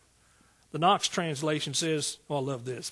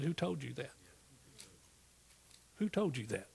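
softer God voice; 3 semitones lower, 9 dB quieter than usual. Retold or imitated. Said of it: "and God said".

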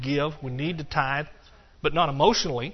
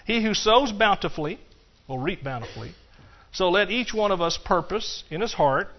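scripture reading; 3 semitones higher than usual. Acted. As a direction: proclaim the verse to the congregation. Reads scripture aloud in sermon.

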